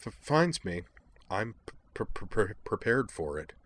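soft, halting stammer on first sounds; a gentle nervous stammer; stammering girl. Acted. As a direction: stumble shyly over each start. Kate's stammering dialogue.

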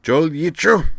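loud, high Klingon command call; gruff shout. Acted. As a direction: bark the order out. Klingon calls out transport command.

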